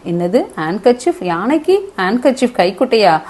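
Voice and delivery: mildly acted disbelief; a touch of puzzled astonishment; surprised. Sales girl reacting to the elephant's request, mild surprise. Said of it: "ரொம்ப ஆச்சரியமா ஆயிடுச்சு".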